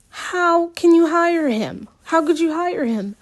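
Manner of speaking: furious demand. Acted. Alex turning on Miss Teague, furious demand. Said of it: "I demand".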